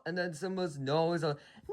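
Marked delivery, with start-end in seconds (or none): 1.7-1.7 mock horrified cry of no. Simba seeing his father fall, a mock horrified no. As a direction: try to cry out in horror. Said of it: "I'm trying to do a horrifying no".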